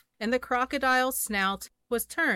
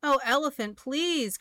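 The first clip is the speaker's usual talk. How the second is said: high, begging bird voice; high pleading cry; 6 semitones higher than usual. Acted. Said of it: "cried the birds".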